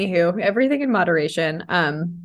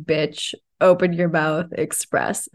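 highest self; 2 semitones lower than usual. Retold or imitated. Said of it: "my highest self is like".

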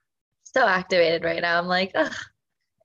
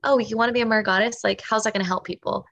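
tough-love coach; faster than usual. Acted. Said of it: "give some tough love".

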